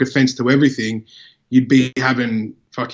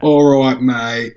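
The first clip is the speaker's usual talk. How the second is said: mock sarcastic "all right, mate"; smart-ass sarcasm; 4 dB louder, much slower than usual. Shown as a demonstration. Showing how mate can insult, smart-ass sarcasm. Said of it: "like, a smart ass term as well".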